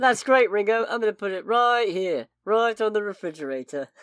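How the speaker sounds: mock Liverpool accent, playing along; hammy fake Scouse reply; Liverpudlian accent put on. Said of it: "This is just turning into doing references".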